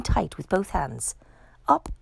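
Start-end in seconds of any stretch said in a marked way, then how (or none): 1.7-1.9 up goes the voice, higher and louder; rising wonder. Acted. Narrator to children as George floats up, excited. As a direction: lift off with the balloons.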